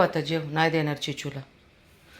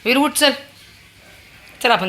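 high, loud wake-up call; 10 semitones higher, 11 dB louder than usual. Real, not acted. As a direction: rouse him from sleep. Waking the child loudly.

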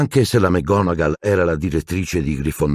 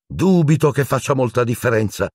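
icy; 7 semitones higher than usual. A narrator's reading. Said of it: "disse gelida".

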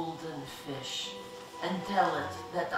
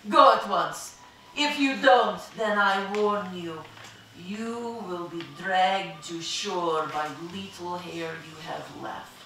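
furious shout; 7 semitones higher than usual. A narrator's reading. Proud wife screams at husband, shrill furious shouting. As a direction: scream at him, then drop to a cold warning. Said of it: "shouted in passion".

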